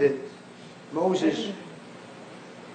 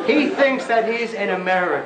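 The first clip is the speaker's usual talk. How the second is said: laughing; 3 semitones higher than usual. Real, not acted. Laughing at the caller.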